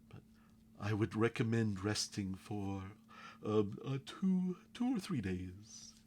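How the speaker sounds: lightly voiced Firbolg healer, pitch lifting; a touch of high Firbolg voice.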